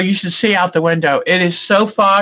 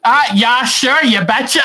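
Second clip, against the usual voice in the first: Minnesota accent; 3 semitones higher than usual. Shown as a demonstration. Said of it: "you like the accent?".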